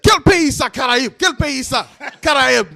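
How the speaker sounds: high, mock-outraged questioning; imitated yelling. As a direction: imitate an angry man who can't believe it. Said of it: "This guy starts yelling".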